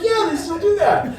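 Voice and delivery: high, laughing repeat. Retold or imitated. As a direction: say it again through a giggle.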